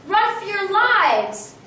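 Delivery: panicked shout. A narrator's reading. Chicken Little screams warning.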